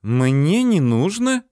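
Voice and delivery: cross, drawn-out rising challenge; very angry. A narrator's reading. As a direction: stretch it out, affronted. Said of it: "очень сердито".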